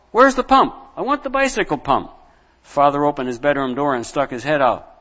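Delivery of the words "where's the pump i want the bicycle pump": high, loud and insistent; demanding shout. Acted. Boy shouting again for the pump, high and insistent. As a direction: keep yelling, demanding it.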